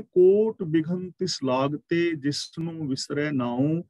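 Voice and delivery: slow, measured recitation of a sacred verse; scripture recitation. Shown as a demonstration. Preacher quoting the Guru to the congregation, slow recitation. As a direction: intone each word of the verse slowly. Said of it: "Guru ਜੀ ਕਹਿੰਦੇ ਨੇ".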